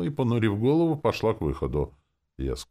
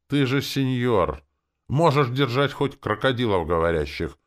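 confident; 8 semitones higher, 5 dB louder than usual. A narrator's reading. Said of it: "уверенно заявил Вова".

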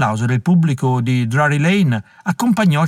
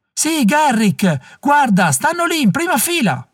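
very high, strained shouting; excited heckler; 13 semitones higher, slower than usual. A narrator's reading. Heckler showing Garrick the front row, high excited voice. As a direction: point them out to the whole theatre.

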